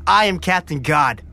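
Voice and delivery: low, proud hero's declaration; heroic declaration. Shown as a demonstration. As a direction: declare it like a superhero. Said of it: "Say it with me".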